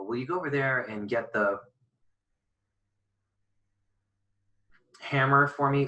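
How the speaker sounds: a long hanging silence between "the" and "hammer"; long mid-sentence pause. Shown as a demonstration. Teacher mimicking someone who breaks lines on articles, long mid-sentence pause. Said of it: "imagine if you were even talking to somebody who's breaking their lines".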